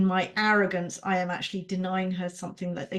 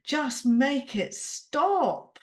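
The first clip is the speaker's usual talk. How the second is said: put-on exhausted little child; 4 semitones higher, much slower than usual. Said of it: "exhausted, tired little child inside me that goes".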